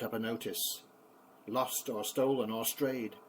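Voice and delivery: bouncy, rhythmic nursery-rhyme reading; poem recitation to children. Acted. Grandpa reciting a favourite poem to the grandkids, rhythmic and lively. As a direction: give the refrain a lively bounce.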